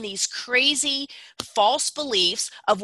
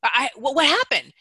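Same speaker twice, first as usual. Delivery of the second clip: higher, confused asking; ask, baffled, what went wrong; puzzled question; 4 semitones higher than usual. Retold or imitated. Other person asking what happened, higher and puzzled. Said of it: "somebody's gonna go".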